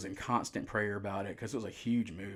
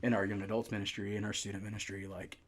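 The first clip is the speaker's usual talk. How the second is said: emotional. Real, not acted. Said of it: "I'm emotional".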